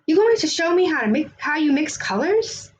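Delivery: put-on impatient child pressing Joe; eager child. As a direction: rush the question like an excited kid. Girl eagerly asks.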